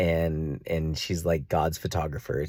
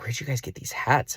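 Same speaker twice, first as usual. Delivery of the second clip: higher-pitched curious question; eager questioning friend; 7 semitones higher than usual. Retold or imitated. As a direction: imitate an intrigued friend. Voices friend spotting the hats.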